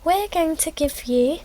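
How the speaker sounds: high, drawn-out cheery announcer; radio station voice. Acted. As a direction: put on a high, sing-song radio host. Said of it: "the radio station says".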